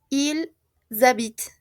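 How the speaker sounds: Ils, a pause, then habitent starting with a z sound; liaison, silent ending. Shown as a demonstration. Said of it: "sí hacemos la liaison".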